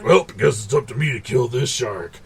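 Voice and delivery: lightly voiced smug dude, laughing through it; douchey hero. Mocking the douchebag who goes after the shark, lightly smug. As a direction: play the smug self-appointed hero. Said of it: "douchey McDouchebag is like".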